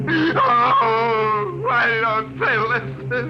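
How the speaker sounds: slow, broken, laughing through tears; hysterical laugh-crying. Acted. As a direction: lose your mind, laughing and sobbing. Hauled off, breaking down.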